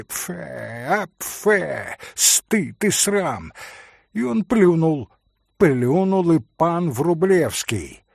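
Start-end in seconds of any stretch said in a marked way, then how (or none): 0.0-3.5 disgust. Acted. Пан плюёт с презрением.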